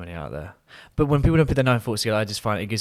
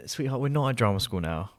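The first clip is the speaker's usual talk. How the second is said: mock condescending; 4 dB quieter than usual. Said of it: "and I said".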